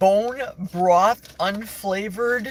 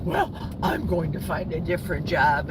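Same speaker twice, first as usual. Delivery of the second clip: mocking quote; 2 semitones lower than usual. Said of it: "they're mad and they're gonna huff and puff".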